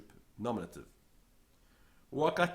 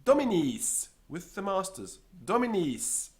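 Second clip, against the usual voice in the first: raised, louder reply; secretary's answer; 7 semitones higher, 5 dB louder than usual. Acted. Secretary answering who she goes with, raised and firm. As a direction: answer firmly.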